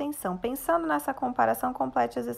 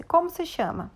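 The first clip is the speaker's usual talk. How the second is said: "Como se chama?" with the pitch much higher on "como"; question tone; 7 semitones higher, 3 dB louder than usual. Shown as a demonstration. Teacher showing pupils how to read a question. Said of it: "Prestem atenção. Tem um pontinho lá".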